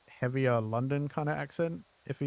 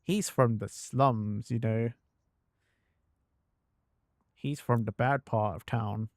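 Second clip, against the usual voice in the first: put-on Cockney accent; 3 semitones lower than usual. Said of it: "make him sound more Cockney".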